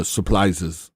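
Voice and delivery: slow "supplises" with an L for the R; mispronounced surprises. Retold or imitated. Repeating a friend's catchphrase, mispronounced "supplises". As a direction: draw out "supplises", swapping R for L. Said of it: "as Marcella Ray likes to say".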